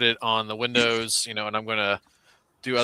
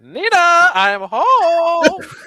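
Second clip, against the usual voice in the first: belted, high and swooping; 10 dB louder than usual. Prying open a door and entering: Ricky Ricardo voice. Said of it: "In my best Ricky Ricardo voice".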